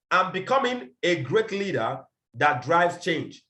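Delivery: each word of becoming laid out slowly; slow declaration. Shown as a demonstration. Leader modelling vision statement, slow and deliberate. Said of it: "declare our vision".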